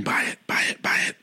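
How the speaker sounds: hushed, unvoiced whisper. Host imitating the guest whispering a plug, whispered. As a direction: whisper it like a subliminal message. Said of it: "are you just whispering".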